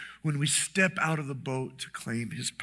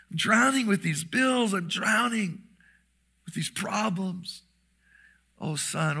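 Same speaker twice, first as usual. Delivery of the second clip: desperate prayer; 2 semitones higher than usual. Acted. Example prayer of a desperate believer.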